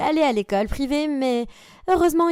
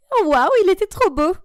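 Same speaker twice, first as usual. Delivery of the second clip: put-on louder, higher gushing over a cute boy; swooning; 7 semitones higher, 6 dB louder than usual. Girl seeing her crush, gushing and loud. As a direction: gush like a smitten teen.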